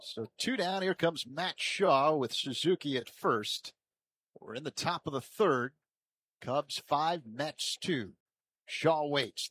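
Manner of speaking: projected scene-setting for the next batter; live play-by-play. Real, not acted. Announcer introducing Matt Shaw's at-bat, live play-by-play. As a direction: lay out the score, then call the pitch.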